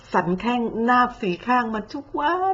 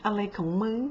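muttered aside; 6 dB quieter than usual. Retold or imitated. Imitating a baffled viewer, muttering quietly. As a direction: mutter อะไรของมึง under your breath.

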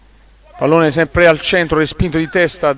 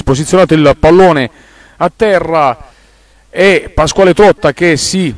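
rising, excited play-by-play; loud, fast sports call; breathless italian goal commentary; 5 dB louder than usual. Real, not acted. Free kick awarded, live excitement.

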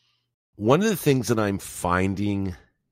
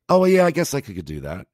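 sheepish mock reply; 8 semitones higher, 7 dB louder, faster than usual. Friend answers sheepishly, retold.

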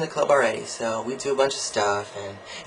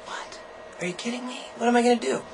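mock disbelief; 10 semitones higher, 4 dB quieter than usual. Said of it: "And I'm like".

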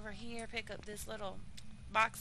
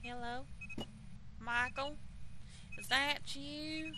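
louder, higher call, slow on "Is that you"; 5 semitones higher, 3 dB louder, slower than usual. Real, not acted. Streamer calling the ghost by name, calling out. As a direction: call into the dark house.

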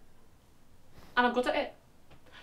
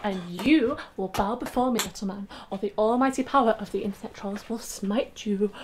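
dark lord. Pretend. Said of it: "pretend I'm a Viking queen".

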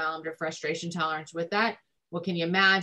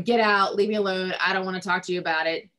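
mock teen yelling; 4 dB louder than usual. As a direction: throw it back like an angry teen, but only half in earnest. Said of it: "they're screaming".

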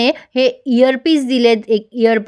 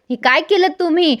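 retold outcry in a raised pitch; mock yell; 6 semitones higher than usual. Chitra finding her makeup wrecked, mildly mock-yelling at her husband. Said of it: "चित्रा ओरडते त्याच्यावर".

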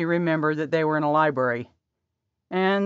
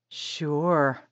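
breathy. Acted. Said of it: "Her breathy voice".

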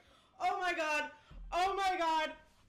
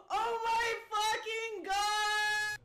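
happy crying; slower than usual. Real, not acted. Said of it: "I'm gonna cry!".

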